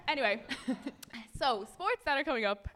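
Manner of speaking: giggling while trying to get back on track; real laughter breaking through; laughing at own joke. Real, not acted. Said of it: "Not laughing at my own jokes".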